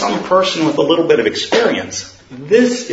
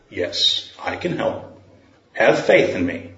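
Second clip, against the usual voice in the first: low, much softer, nearly whispered; the Lord's deep voice; 4 semitones lower, 4 dB quieter than usual. Acted. The Lord answers the falling man, low and soft. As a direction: answer from above, low and hushed.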